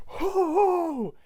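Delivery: high, loud drawn-out ho-hos; mock Santa laugh. Grinch posing as Saint Nick, loud high ho-hos. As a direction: belt out a fake Santa laugh.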